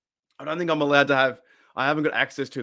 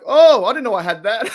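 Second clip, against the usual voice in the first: imitating the player; 8 semitones higher, 8 dB louder than usual. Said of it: "He's like".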